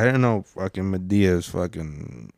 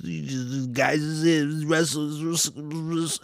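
a hint of Madea's grandma voice, softer; Medea voice; 5 semitones higher, 7 dB quieter than usual. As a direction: lightly voice an old grandma. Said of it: "Medea, I feel like, sounds like this".

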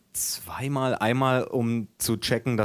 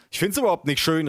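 higher, mildly raised objection; exclaimed protest; 6 semitones higher, faster than usual. A narrator's reading. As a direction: protest with a lifted pitch. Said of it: "rief ich".

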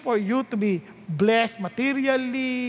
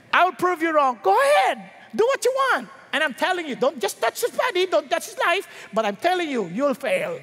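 confident God; 2 semitones higher than usual. Acted. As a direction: answer Satan with sure, fiery confidence. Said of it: "that's not the way he said it".

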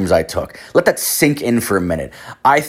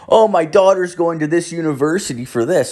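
higher imitated Indian-accented voice; Indian cab driver; 8 semitones higher than usual. Cab driver talking about his daughter, Indian accent. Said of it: "he's, like, this Indian guy".

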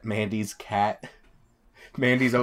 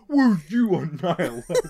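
higher, louder mock New York-Boston accent; Quinn; 6 semitones higher, 5 dB louder than usual. Mimicking friend's funniest trash-talk line, raised New York-Boston accent. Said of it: "Quinn's New York, Boston, B M O accent".

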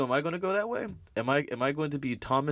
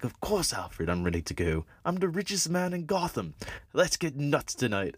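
smug rich man; 5 semitones higher than usual. Retold or imitated. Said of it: "And he's just like".

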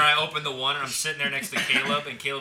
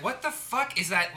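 higher, slower puzzled question; acted bafflement; 5 semitones higher, slower than usual. Host listening back to recordings, acted baffled question. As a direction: re-enact being baffled by a noise. Acting out his puzzled past reaction.

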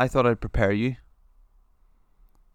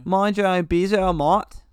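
Australian accent; 5 semitones higher, slower than usual. Shown as a demonstration. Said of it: "put it in the sentence for you".

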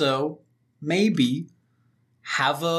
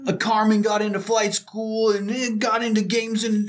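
excited Rico; 5 semitones higher than usual. Retold or imitated. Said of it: "Rico is getting all excited".

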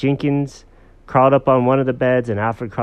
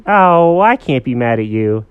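melting affection; 3 semitones higher, 8 dB louder than usual. Acted. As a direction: give in to a cute pet. Girl melts at purring cat.

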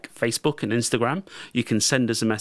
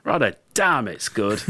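laughing repeat; slower than usual. Retold or imitated. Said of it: "Good dad joke there".

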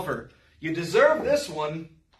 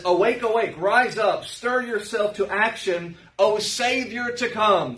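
scripture reading; 3 semitones higher than usual. Acted. Reads scripture aloud.

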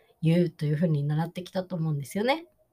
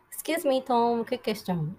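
slow demo phrase; 4 semitones higher, much slower than usual. Shown as a demonstration. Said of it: "みたいな感じで".

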